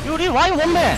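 sudden alarmed shout; panicking gamer. Real, not acted. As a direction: yell it in a panic. (당황한 외침)

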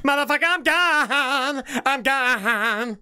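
drawn-out, exclaimed bail-out; mock panicked exit. Reacting to a shadow in the television, mock alarm. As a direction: stretch it out like you're fleeing.

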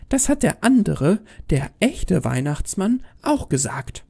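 put-on high, pointed child voice; defiant little girl. Girl citing the real Santa, defiant high voice. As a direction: retort like a stubborn kid.

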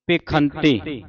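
ਭਿਖੰਤੇ with a clear aspirated kh; kh sound. Shown as a demonstration. Teacher showing students which letter to sound, clear kh. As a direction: sound the khakha in ਭਿਖੰਤੇ as pe-khan-te. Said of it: "ਖੱਖੇ ਦੀ ਆਵਾਜ਼ ਉਚਾਰਨ ਕਰਨੀ".

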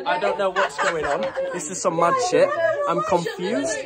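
tipsy, slurring a little. Real, not acted. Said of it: "drunk too much and passed out".

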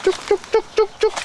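high singsong chook chook call; calling chickens. Real, not acted. Calling the hens again.

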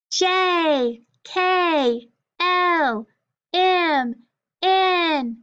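high, loud letter chant. Shown as a demonstration. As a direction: call out each letter loudly, high and falling. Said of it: "say the consonants loud".

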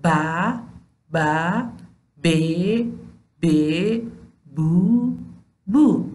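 ب joined to each short vowel, به بِ بُ; teacher drilling ب with short vowels; syllable drill. Shown as a demonstration. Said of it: "با صدادارهای کوتاه".

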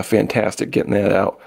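dry, deadpan sarcasm; sarcastic. Real, not acted. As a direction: say it flat, meaning the opposite.

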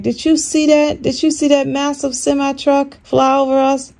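high, excited questioning; retold amazement. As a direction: urgently check that someone else saw it. Retelling amazed question to daughter.

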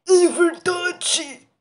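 very slow, lightly voiced confident ogre. Reads the story's ogre answering confidently, in a light ogre voice. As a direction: slowly boom out the ogre's boast. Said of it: "Vou fazer agora pra você".

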